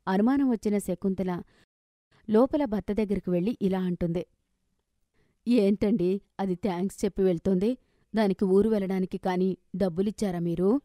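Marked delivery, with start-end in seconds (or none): 5.5-10.8 suspicious. Acted. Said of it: "అనుమానంగా అడిగింది".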